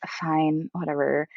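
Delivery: grudging, pissy agreement. Retold or imitated. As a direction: give in with a slight huff. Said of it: "really being pissy".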